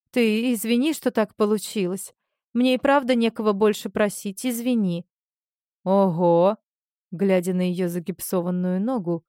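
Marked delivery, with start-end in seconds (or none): 0.1-5.1 trembling guilty voice. Acted. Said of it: "проговорила дрожащим, виноватым голосом". 5.8-6.6 a loud startled wow; surprised. Acted. Zhenya startled by Marina's cast, loud surprised gasp.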